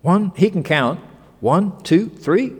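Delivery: high, amazed counting and asking; astonished king. Acted. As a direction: gape at the fourth man. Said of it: "he says".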